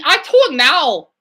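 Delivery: mock the Family Guy Asian driver; a hammed-up imitation of the Asian driver; imitating Asian driver. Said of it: "that Family Guy episode with that Asian driver".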